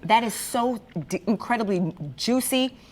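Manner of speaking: talking through a mouthful; chewing while talking; mouth full. Real, not acted. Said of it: "I'm so gonna talk with my mouth full".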